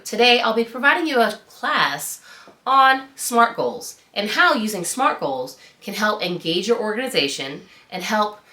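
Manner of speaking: polished formal presenter voice, lightly performed; upbeat formal speech to an audience, a light demo; mock presentation. Shown as a demonstration. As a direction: deliver it like a confident trainer opening a class. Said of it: "I'd like to show you a mock presentation".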